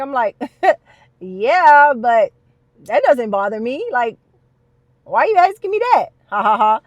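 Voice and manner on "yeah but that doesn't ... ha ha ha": loud, laughing brush-off of the question. Retold or imitated. Answering the therapist's personal question with a loud laugh. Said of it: "So I'm laughing like".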